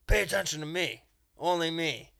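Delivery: loud, high imperious order; mock-domineering shout; commanding dominatrix. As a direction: demand attention, punching it out loudly. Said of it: "That's what a dominatrix would do".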